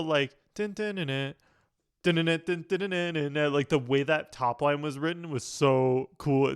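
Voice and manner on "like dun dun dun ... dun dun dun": vocal hook imitation. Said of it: "I love the".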